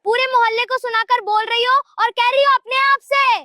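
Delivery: high-pitched scolding comeback; indignant retort. Acted. Daughter-in-law accuses mother of broadcasting to neighbours, indignant retort.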